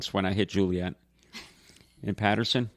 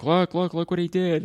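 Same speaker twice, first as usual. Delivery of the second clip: mock tattling child; 7 semitones higher than usual. Brother imitates bleeding sister fetching Dad, tattling. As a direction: play a kid summoning Dad.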